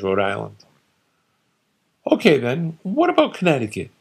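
a lightly voiced father holding court, dismissive; opinionated father. Father lecturing his son, lightly voiced and dismissive. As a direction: scoff at every state like a know-it-all dad.

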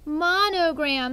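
Monogram, said slowly and clearly; slow model word. Shown as a demonstration. Teacher models the new word, slow and clear. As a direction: draw out Monogram for the class to echo. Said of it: "Say it with me".

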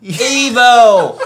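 laughing. Real, not acted. Laughing mid reading.

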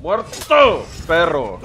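loud gloating jeer; triumphant taunt. Real, not acted. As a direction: gloat over the kill. Taunting beaten opponent.

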